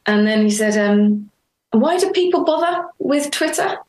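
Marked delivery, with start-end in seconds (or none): 1.7-3.8 imitating father. Quoting father's puzzled question.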